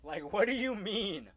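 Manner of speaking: high-pitched incredulous protest; exasperated disbelief. Acted. Worker reacting to manager overruling her, high incredulous protest.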